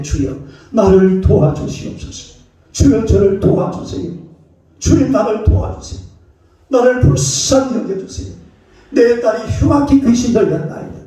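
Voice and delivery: mildly acted plea of a desperate mother; earnest crying out. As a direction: beg the Lord with rising urgency. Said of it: "이렇게 간절하게 부르짖는".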